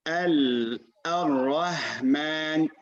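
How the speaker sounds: slow demonstration of mispronounced Ar-Rahman; mistaken ha. Retold or imitated. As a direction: imitate a learner reciting Ar-Rahman slowly with a plain English-like h. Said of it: "when they recite, they say what?".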